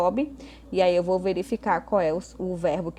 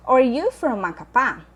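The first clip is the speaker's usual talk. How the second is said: slow, louder English question; slow model reading; 5 semitones higher, 6 dB louder, slower than usual. Shown as a demonstration. Teacher reading exercise A to students, slow and clear. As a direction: read the exercise item out slowly and clearly. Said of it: "teacher reads exercise item".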